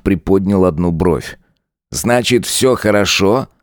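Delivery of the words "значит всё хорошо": a lightly voiced sneering cop, slow and taunting; mocking lieutenant. Lieutenant Saigar mocking Tanya, lightly voiced sneer. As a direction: lean into the lines like a smug bully.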